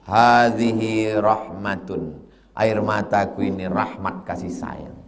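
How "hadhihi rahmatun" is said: gentle reply. Retold or imitated. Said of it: "Apa jawab Nabi?".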